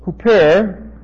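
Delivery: "Huper" said as HOO-per, rising at the end; "Huper" pronounced hoo-per with a rising finish; Greek word huper. Shown as a demonstration. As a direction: sound out "Huper" carefully, two syllables. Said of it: "looks like this".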